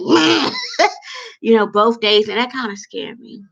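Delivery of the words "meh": mock flat meh. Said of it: "her whole eyes just got red and she was like".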